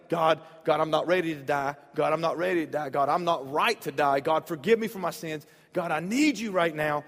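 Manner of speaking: loud panicked prayer; retold yelling. Pastor retelling his turbulence prayer, yelling. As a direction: cry out to God in fear. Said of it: "I was yelling".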